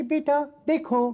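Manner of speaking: high, thin woman's voice; man doing a woman's voice. Shown as a demonstration. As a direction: squeak it like the aunt. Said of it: "पतली सी आवाज निकाल के".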